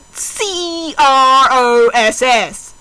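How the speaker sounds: spelled out letter by letter, slowly. Shown as a demonstration. Reading a fanfic aloud, spelling out the word cross letter by letter. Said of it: "spelling it out letter by letter".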